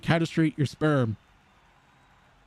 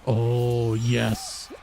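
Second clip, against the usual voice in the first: excited yes; 4 semitones lower, much slower than usual. Retold or imitated. Excited retold reaction.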